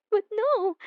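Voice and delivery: a triumphant laugh breaking into the words; gloating laugh. Acted. Obsessed admirer to beloved, gloating laugh.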